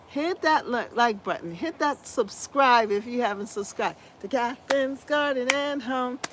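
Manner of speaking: hoarse, scratchy throat. Real, not acted. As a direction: talk through a scratchy voice. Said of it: "you like my scratchy voice anyway".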